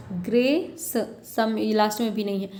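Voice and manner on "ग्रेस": "ग्रेस" with a long "ग्रे" and detached final s; stressed syllable. Shown as a demonstration. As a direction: stretch "ग्रे" in "ग्रेस", then release the s. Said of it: "आपको दिखेगा stress". ("ग्रेस" के "ग्रे" पर ज़ोर)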